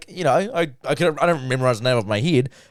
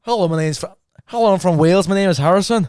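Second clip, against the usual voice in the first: higher-pitched attempt at Welsh; imitated Welsh accent; 5 semitones higher than usual. Guest copying the host's line, tentative Welsh accent. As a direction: copy a sing-song Welsh accent. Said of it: "That's not bad".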